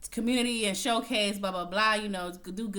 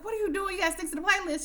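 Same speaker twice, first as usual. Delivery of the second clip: scolding quote; 11 semitones higher, faster than usual. Retold or imitated. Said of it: "She's like".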